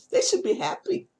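whispered mocking aside; sneering whisper to viewers; sarcastic whisper. Real, not acted. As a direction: hiss it under your breath. Sarcastic aside after toilets.

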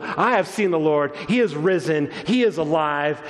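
brisker, driving proclamation; preached proclamation. Acted. Woman preaching the gospel to the disciples, urgent proclamation. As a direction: preach it as urgent good news. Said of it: "She preaches the gospel".

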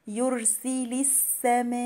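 "السماء" chanted with a long held aa before the hamza; obligatory madd. Shown as a demonstration. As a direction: stretch the aa in "السماء" for four counts. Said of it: "هنا المد ده مد". (مد "السماء" أربع حركات)

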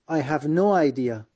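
slow and clear, word by word; slow model reading. Shown as a demonstration. Teacher modelling the phrase slowly for students. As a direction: say it slowly so learners catch it. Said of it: "teacher models phrase slowly".

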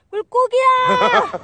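long, slow, high call to the fish. Real, not acted. Calling the fish through the ice hole, long drawn-out call. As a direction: drag the call out like summoning a pet.

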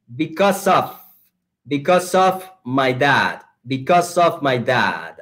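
"because of" run together as "becau-sof"; linking words. Shown as a demonstration. Teacher after "listen and repeat", "because of" linked by the S. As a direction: model "because of" slowly as one linked unit. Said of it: "el truco de pronunciación que está aquí".

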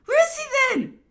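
high, loud questioning cry; exclaimed demand. A narrator's reading. Emperor asking after his minister, exclaiming loudly. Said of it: "His Majesty exclaimed s-, quickly".

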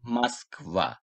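"Moskva" said as "maskVA", softly modelled; O read as A. Shown as a demonstration. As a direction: stress the last syllable of "Moskva". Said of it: "Vurgu sonda olduğu için buradaki O'yu A okudum".

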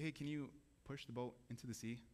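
a hint of a gentle Jesus asking; mild gentle ask to a tired fisherman; gentle request. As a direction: ask kindly, lightly voiced. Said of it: "he says it gently".

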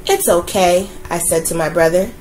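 put-on gentle storytelling voice for children; story narration. A narrator's reading. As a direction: read it like a bedtime picture book. Reads a picture book aloud.

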